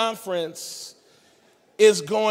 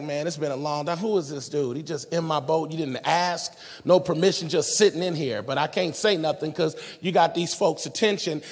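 grumbling Simon; 4 semitones lower than usual. Retold or imitated. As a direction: grumble to yourself about the intruder. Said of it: "He's like".

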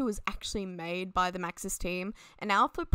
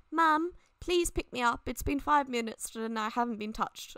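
bad British accent; 3 semitones higher than usual. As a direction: plead like a pampered pup with a mock British accent. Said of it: "I gave him a British accent".

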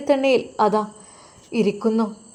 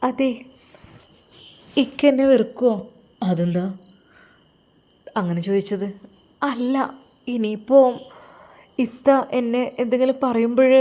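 put-on coy young woman. Young lover asks Firoz if he'll hate her, coyly pleading. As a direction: lean on him, fishing for reassurance. Mistress coaxing husband.

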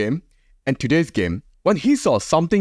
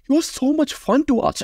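excited; 12 semitones higher than usual. Real, not acted. Praising Camavinga's performance.

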